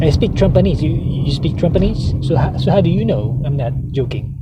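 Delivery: lightly voiced mock president; loose, teasing impression of the president; McDonald Trump. Mock president boasting of his own language, lightly caricatured. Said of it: "that's the way he speaks".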